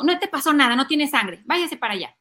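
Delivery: mock brusque dismissal; indifferent mom. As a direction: brush the child off. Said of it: "te pones indiferente". (mamá indiferente, fingida)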